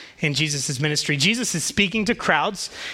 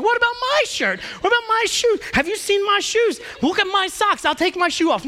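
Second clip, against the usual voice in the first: put-on much higher, excited little kids; clamoring kids; 11 semitones higher than usual. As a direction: pile on like a crowd of eager children. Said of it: "all the other ten other kids are like".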